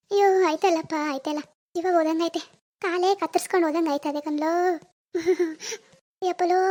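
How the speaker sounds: groaning lament breaking into sobs; hammed-up tearful pain; put-on crying. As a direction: moan as if the leg is gone. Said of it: "ಕಾಲ್ ನೋವು ಅಂತ ಅಳ್ತಿದ್ದಾರೆ".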